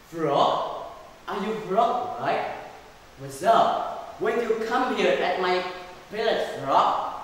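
loud, lightly acted king's questioning; surprised king. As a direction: question an unexpected visitor loudly.

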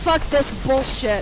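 pissed off. Real, not acted. Player pissed at the game, angry curse. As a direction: curse it, holding some back. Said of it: "I'm fucking pissed".

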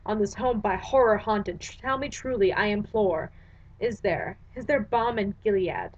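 measured, dramatic recitation of verse; solemn verse reading; poem reading. Acted. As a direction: read it like a haunted poet. Reads The Raven aloud.

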